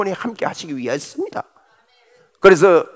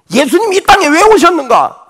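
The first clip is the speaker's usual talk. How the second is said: rising preached question; 8 semitones higher, 5 dB louder than usual. Real, not acted.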